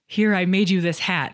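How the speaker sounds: ordinary talk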